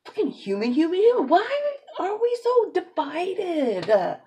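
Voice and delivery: loud, high impassioned plea; passionate rant. Real, not acted. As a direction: cry out for unity.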